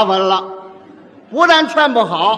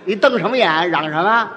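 mild provoking peacemaker. Acted. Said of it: "哪有这样劝的".

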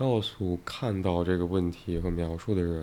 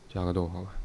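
dictating punctuation; 4 dB quieter, much faster than usual. Shown as a demonstration.

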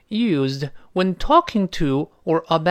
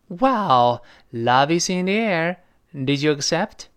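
excited; 3 semitones higher, 4 dB louder, slower than usual. Acted. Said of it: "第二个女孩子很高兴哦".

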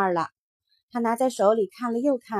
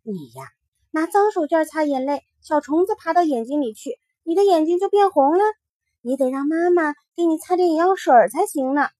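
explaining little rabbit; 4 semitones higher than usual. Acted.

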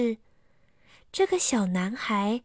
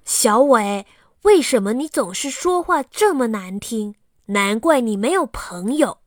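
louder, angry scolding; loud retort; 6 dB louder than usual. Acted. Aliang scolds Xiaowei loudly, angry and stamping. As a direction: tell him off loudly. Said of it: "他大声地说".

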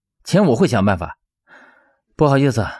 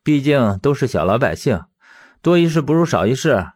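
higher-pitched, resigned reassurance; consoling; 3 semitones higher than usual. Acted. Teacher excusing the girl to his friend, consoling. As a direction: talk him down with understanding. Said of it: "他反倒安慰起了魏正义".

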